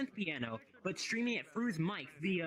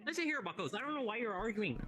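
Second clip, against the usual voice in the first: higher-pitched mock Irish accent; 4 semitones higher than usual. Friend stepping into a lobby squabble, Irish accent. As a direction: scold them in a put-on Irish accent. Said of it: "I can do my Irish accent".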